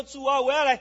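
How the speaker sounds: loud mock worshipper; loud acted prayer. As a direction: pray out eagerly and too loud. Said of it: "干嘛那么大声啊".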